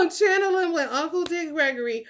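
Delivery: laughing through the story; amused, laughing telling. Real, not acted.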